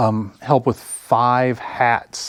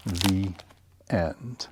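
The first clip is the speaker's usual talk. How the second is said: whisper; 2 semitones lower, 5 dB quieter than usual. Acted. Closing the story.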